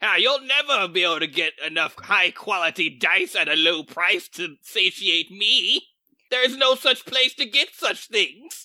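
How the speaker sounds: put-on goblin voice. Playing a dice goblin in a sponsor skit: dice goblin voice. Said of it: "the dice goblin".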